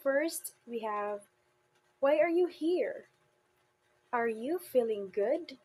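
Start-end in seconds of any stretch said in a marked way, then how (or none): 2.0-5.6 emphasis on the key word in "Why are you here" and "Are you feeling good"; lifted, emphatic example questions, here and good given weight; tonic stress. Shown as a demonstration. Teacher demonstrates tonic stress on example questions, emphasizing key words. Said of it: "as an example of tonic stress".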